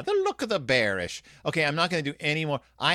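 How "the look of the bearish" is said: put-on Irish lilt; Irish accent. Podcaster repeating the story's pun, Irish accent. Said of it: "my Irish accent".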